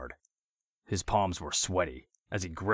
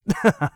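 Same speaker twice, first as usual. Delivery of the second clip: chuckle; 12 dB louder than usual. A narrator's reading. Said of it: "with a chuckle".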